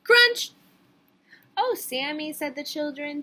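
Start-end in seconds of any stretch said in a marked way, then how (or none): 0.0-0.5 high, explosive shout; sudden loud crunch. A narrator's reading. Reader springs the bite on the storybook, shouted. 1.6-2.3 high, loud group complaint; children's reproach. A narrator's reading. Children to Sammy who ate their book, loud reproach.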